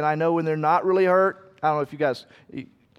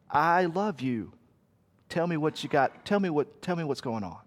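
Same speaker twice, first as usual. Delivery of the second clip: tender God; 2 semitones lower, 6 dB quieter than usual. Retold or imitated. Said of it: "and he goes".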